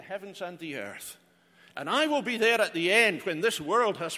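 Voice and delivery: 1 rising divine proclamation. Acted. Voices Jesus claiming to be God.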